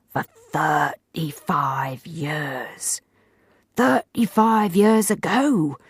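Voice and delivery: slow dramatic emphasis. A narrator's reading.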